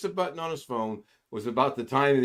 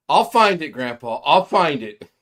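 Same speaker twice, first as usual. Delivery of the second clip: put-on insistent child; 3 semitones higher, 11 dB louder than usual. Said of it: "She says".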